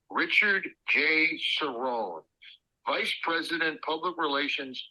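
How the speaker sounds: imitating someone reading a card aloud; reading out loud. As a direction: read each item out separately, with pauses between. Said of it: "reading my business card out loud".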